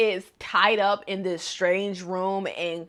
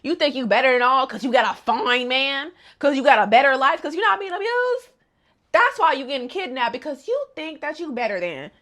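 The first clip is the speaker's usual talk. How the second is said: taunting; 4 semitones higher than usual. Retold or imitated. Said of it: "Kanako just like".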